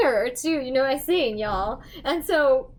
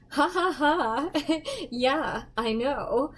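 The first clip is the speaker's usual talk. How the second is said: radio voice demo; slower than usual. Shown as a demonstration. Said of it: "I use my radio voice".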